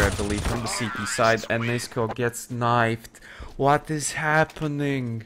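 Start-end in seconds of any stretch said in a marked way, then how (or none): 3.6-5.2 drawn-out, astonished question; baffled exclamation. Real, not acted. Caster seeing another player knifed, baffled. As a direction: stretch it out in disbelief.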